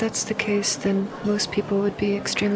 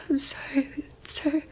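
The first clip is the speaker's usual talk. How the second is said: whispered tearful apology; hushed sorry while weeping; crying whisper; 3 semitones higher than usual. Real, not acted. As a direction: barely voice it through tears. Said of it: "what's making you cry".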